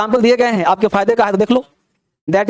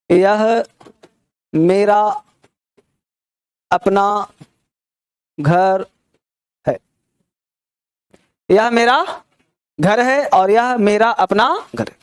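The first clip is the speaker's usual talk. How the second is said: slow example; much slower than usual. Shown as a demonstration.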